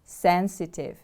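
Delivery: "Sensitive" with the stress on SEN; stress on first syllable. Shown as a demonstration. Teacher models the word for learners, stress on SEN in "Sensitive". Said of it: "The stress is on the first syllable".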